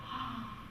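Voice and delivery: quiet, breath-like "ah" of realisation; soft awed gasp. Retold or imitated. Teacher stopped by a sudden realisation, softly gasping. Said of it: "I went".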